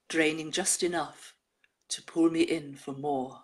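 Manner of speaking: measured recital, falling line endings; poem reading. Acted. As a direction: read the verse gravely, with pauses. Reads a poem aloud.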